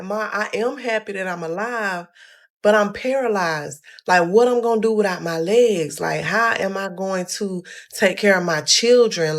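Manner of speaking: upset pleading. Retold or imitated. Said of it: "And I'm telling her".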